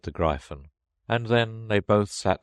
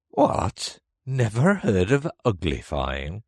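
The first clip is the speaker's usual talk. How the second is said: high, loud astonished creature; exclaimed surprise; 4 semitones higher, 4 dB louder, slower than usual. A narrator's reading. Gryphon astonished at Alice's ignorance, exclaiming in surprise. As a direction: burst out in disbelief, leaping up in pitch. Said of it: "lifted up both its paws in surprise".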